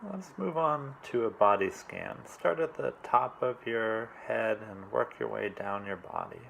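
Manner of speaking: calm, unhurried meditation coach; measured meditation instructions in short, spaced phrases; guided meditation. Real, not acted. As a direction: guide them gently through it, leaving long pauses. Leads a meditation.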